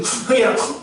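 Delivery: lightly acted urging parent; parent prompting nose-blow. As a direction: mimic telling a child to blow. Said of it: "두 구멍에서 쭉 나오잖아요".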